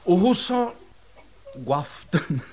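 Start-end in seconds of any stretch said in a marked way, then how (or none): 1.5-2.4 put-on Norwegian accent. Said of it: "Talar ju norska".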